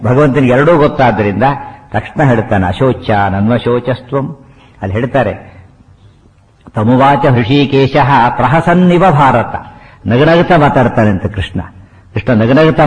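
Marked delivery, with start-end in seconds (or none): 2.7-4.5 slow, measured Sanskrit recitation; verse recitation. Shown as a demonstration. Teacher quoting Krishna's first words to listeners, slow recitation. 6.8-9.5 slow, measured Sanskrit recitation; verse recitation. Shown as a demonstration. Teacher quoting Krishna's first words to listeners, slow recitation.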